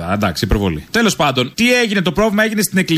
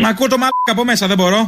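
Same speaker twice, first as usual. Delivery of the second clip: irritated, raised pitch; worked up and higher-pitched; 5 semitones higher than usual. Real, not acted. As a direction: complain in an exasperated raised voice. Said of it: "Καλά, μη φωνάζεις".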